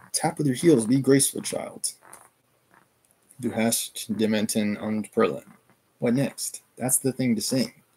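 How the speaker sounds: steady read-aloud narration, characters lightly voiced; story narration. Streamer reading Katerina's death scene to chat, steady narration.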